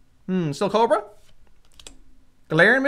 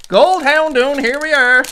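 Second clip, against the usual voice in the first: louder, showing off the prize; proud excitement; 5 dB louder than usual. Real, not acted. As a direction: present the card with pride. Showing the gold card again.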